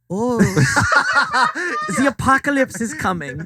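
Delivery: high, excited hero voice; goofy high character voice. Acted. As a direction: ham up a brave runner. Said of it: "Han's like".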